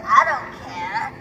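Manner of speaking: low, slow mock indifference; acted sullen dismissal; grumpy, sarcastic. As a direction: drag it out like a grump who can't be bothered. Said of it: "everyone is grumpy and mean and sarcastic".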